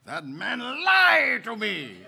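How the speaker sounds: laughing, slowed mock indignation; very animated. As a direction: drag it out in mock outrage. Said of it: "He said in a very animated tone".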